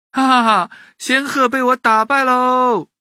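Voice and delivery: put-on loud, high gloating boy; laugh, then crow the victory; triumphant laughing. A narrator's reading. Boy thinks he beat the crane, laughing and crowing.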